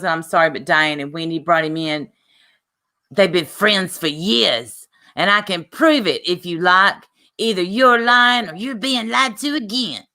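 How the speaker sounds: lightly put-on New York accent. Streamer reading a rival's reply, mock New York accent. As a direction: give a loose imitation of New York. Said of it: "I'm done with doing the accent".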